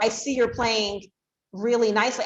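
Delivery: lifted, eager praise for playing nicely; excited praise. Shown as a demonstration. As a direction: radiate excitement while praising. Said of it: "a tone of voice that radiates excitement".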